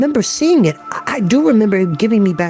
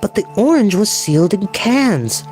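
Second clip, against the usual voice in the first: put-on high-pitched boyish disbelief; incredulous; 7 semitones higher than usual. A narrator's reading. Barney disputing his brother's theory, incredulous. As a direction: protest in high, incredulous tones. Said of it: "Barney said incredulously".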